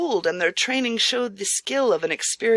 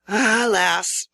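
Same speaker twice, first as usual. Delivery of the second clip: rueful sigh; 5 dB louder than usual. Acted. Host sighs with shame.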